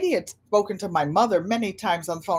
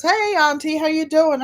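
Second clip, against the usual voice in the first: mock Katie; 8 semitones higher, 3 dB louder than usual. Katie's phone greeting, acted.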